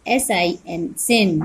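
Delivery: drawn-out spelling building to the word; slow blending. Shown as a demonstration. Teacher sounding out letters for the class. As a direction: sound each letter out slowly, then say the word. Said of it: "बी यानी ब".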